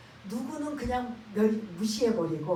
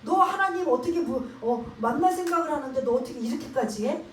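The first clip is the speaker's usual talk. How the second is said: mild scolding; 3 semitones higher, 3 dB louder than usual. Retold or imitated. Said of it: "야단 꾸짖고 있는 거예요".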